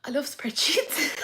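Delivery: slow unvoiced whisper; hushed fond whisper; whispered love. Real, not acted. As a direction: breathe it like a confession. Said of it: "really weirdly emotional".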